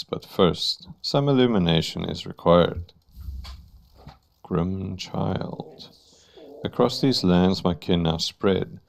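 slow, grand, lightly voiced ringmaster; a hint of a theatrical demon master. Reads Troupe Master Grim.

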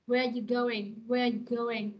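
"Where you going" with "are" shrunk to a schwa after "Where"; reduced "are". Shown as a demonstration. Teacher correcting the example for the class, "Where you going" with reduced "are". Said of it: "trong câu này sẽ là chữ ơ ha".

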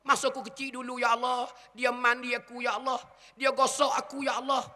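a lightly voiced son pleading with God over his mother's body; grieving son's prayer. Preacher voices son praying at mother's funeral, lightly grieving plea.

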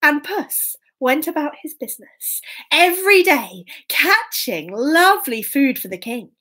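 lilting, emphatic storyteller; children's story narration. A narrator's reading. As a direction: savour the key words for young listeners.

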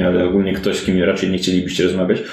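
ordinary delivery

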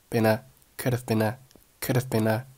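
light, weak "could have been a"; linked been a. Shown as a demonstration. Teacher shows linking, "been a" said as one word. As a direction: run "been a" together as bee-na. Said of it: "been和a连读成了been a".

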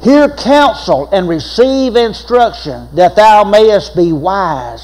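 solemn scripture reading. Acted.

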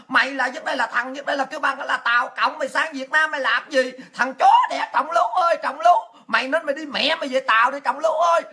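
mock cursing tirade, rising to a laughing yell at Trọng Lũ; hammed-up insults hurled at the leaders, half laughing; pretend cursing. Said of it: "Giả bộ ngồi chửi nhưng mà giả bộ nét mặt mình phải giả hiền".

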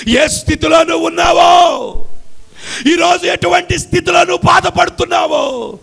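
high, loud half-sung appeal; preaching at full force. Acted. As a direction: cry out to every suffering listener. (పాడుతున్నట్లు బిగ్గరగా ప్రసంగం)

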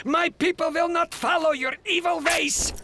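angry shout. Acted. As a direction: yell it at your rival. Grandpas quarrelling over the holiday.

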